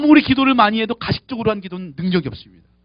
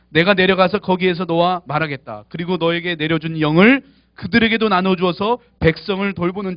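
steady, slightly raised reading voice; scripture reading; 3 dB louder than usual. Acted. Pastor reading Numbers to the congregation, in a measured reading voice. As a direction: read the passage out for the church.

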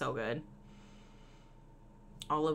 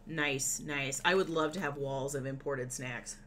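talking through loud chewing; chewing loudly; 3 semitones lower than usual. Real, not acted. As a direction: mouth full of snacks. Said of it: "Oh, not my eating".

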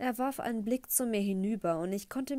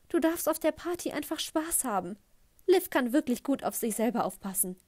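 high, beaming mom voice; mother beaming at her future stepson; gushing mother; 4 semitones higher than usual. Acted. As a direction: gush it at the boy, all sweetness. Mom coos at Grayson.

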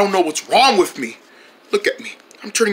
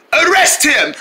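insistent demand; 6 semitones higher, slower than usual. Acted. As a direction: insist on the arrest. Calling for arrest.

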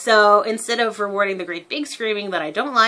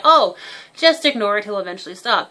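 dismissive parent; 6 dB louder than usual. Retold or imitated. Parent advice quoted again.

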